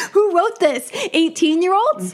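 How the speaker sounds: high laughing disbelief; laughing scoff. Retold or imitated. Mocking the film's writing to a friend: laughing scoff. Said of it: "I was like".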